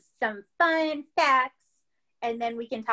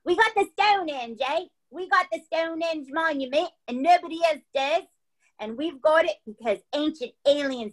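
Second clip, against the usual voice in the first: a mock Cockney accent, hammed up and mixed with Southern; playfully butcher a Cockney accent; horrible Cockney accent. Podcast host showing friends her bad Cockney, mock Cockney accent. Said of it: "a horrible Cockney accent".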